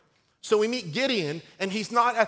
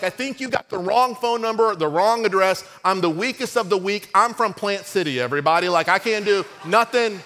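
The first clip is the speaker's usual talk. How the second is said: panicked protest; 5 dB louder than usual. Acted. Preacher plays Gideon protesting to the angel, loud and panicky. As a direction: plead loudly that he's the wrong guy. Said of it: "He's like".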